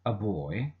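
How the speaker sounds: put-on A said "uh" before boy; schwa A. Shown as a demonstration. Teacher giving an example of the article, schwa "uh". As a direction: say A as a neutral "uh". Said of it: "which is a schwa sound".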